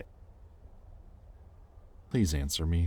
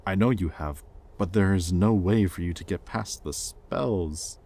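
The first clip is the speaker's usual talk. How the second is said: louder, anxious insistence; rising panic; 3 semitones higher, 5 dB louder than usual. Acted. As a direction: fight off the panic as you speak. Panicking as she is missing.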